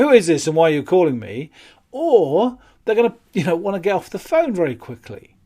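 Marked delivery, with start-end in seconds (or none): 0.0-1.5 aggressive customer. Retold or imitated. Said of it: "they're gonna get aggressive with you".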